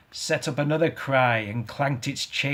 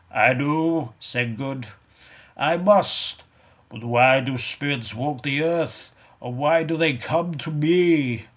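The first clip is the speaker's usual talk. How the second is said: raised, anxious voice; frightened old man; 3 semitones higher, 5 dB louder than usual. Acted. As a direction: admit it nervously. Good answering the ghost.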